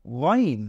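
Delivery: ওয়াইন with a throaty start; Arabic ghain. Shown as a demonstration. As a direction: voice ওয়াইন as the dotted letter. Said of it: "এটা হয়ে যাবে". (গলা থেকে ঘষে ওয়াইন)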